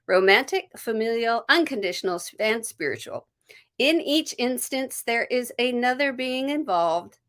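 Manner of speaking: calm card reading. Acted. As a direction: read the card like an oracle message. Reads card text aloud.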